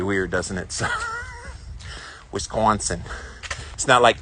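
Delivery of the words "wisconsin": attempted Wisconsin pronunciation of the state name; lightly put-on Wisconsin accent. Southern boy trying to say it in a Wisconsin accent. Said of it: "trying to say a Wisconsin accent".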